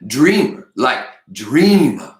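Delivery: "Dreamer" said with emphasis, the second one stretched long; loud, lingering "dreamer"; drawn-out Dreamer. A narrator's reading. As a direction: lean on "dreamer" and stretch the vowel. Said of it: "calls me Fatima the Dreamer, says".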